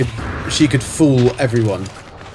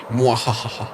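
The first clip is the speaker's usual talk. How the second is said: mock evil laugh; 3 semitones lower, 5 dB quieter, slower than usual. Mock villain laugh after joke.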